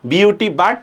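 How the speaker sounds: "বাট" rhyming with cut; contrasted pronunciation. Shown as a demonstration. Teacher showing class two spellings differ in sound, contrasted pronunciation. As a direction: spell "বিইউটি", then say "বাট" with short u as in cup. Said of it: "দুইটার উচ্চারণ নিশ্চয়ই কি".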